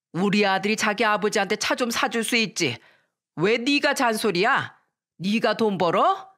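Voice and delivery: lightly voiced angry mother-in-law; mother-in-law scolding. Mother-in-law on the phone berating her daughter-in-law, mild mock anger. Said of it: "화를 내며 소리쳤습니다".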